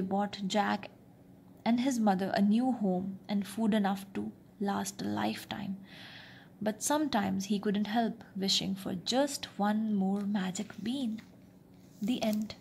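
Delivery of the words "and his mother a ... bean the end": soft whispered bedtime ending; whispering. A narrator's reading. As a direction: hush it like a bedtime close.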